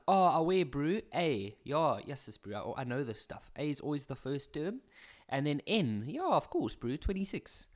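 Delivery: lightly put-on Johannesburg slang voice, breezy and overconfident; Joburg accent. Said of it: "always whip out the Josie accent".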